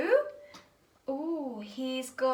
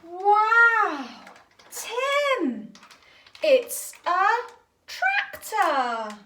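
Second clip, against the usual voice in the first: excited; 4 semitones higher, 5 dB louder, much slower than usual. Real, not acted. Showing toy tractor to child.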